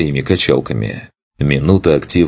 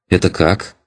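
put-on puzzled young rogue; 3 semitones higher than usual. Elf asks puzzled.

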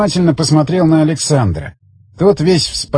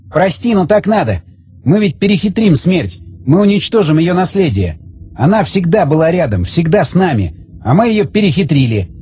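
higher-pitched character voice; raised, insistent man's voice; earnest doomed man; 4 semitones higher than usual. Acted. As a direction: justify it earnestly, pitch lifted. Voices Zagorsky justifying himself.

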